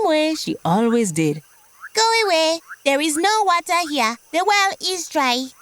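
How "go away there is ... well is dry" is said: higher, haughty frog voice; a proud little frog shooing him off. Acted. Proud frog turning the thirsty buffalo away, higher voice.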